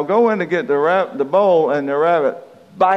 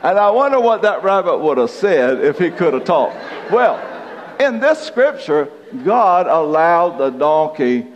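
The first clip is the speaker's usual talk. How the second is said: laughing; 4 semitones higher, 3 dB louder than usual. Real, not acted. Laughing after rabbit joke.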